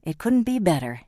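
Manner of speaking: beaming with news; proud lover announcing good news, happily. Acted. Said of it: "Jamie said happily".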